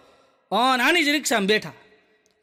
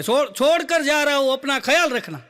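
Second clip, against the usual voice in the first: filmy rickshaw slogan; 4 semitones higher than usual. Retold or imitated. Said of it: "કેવા સૂત્રો લખ્યા હોય".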